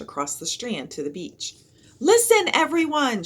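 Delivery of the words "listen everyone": higher, louder call for attention; shouted. A narrator's reading. Annie calling to the crowd on the beach, a loud high shout. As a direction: hail the whole beach crowd. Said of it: "shouted Annie".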